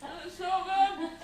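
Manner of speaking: laughing. Real, not acted. Tasting the Arctic roll.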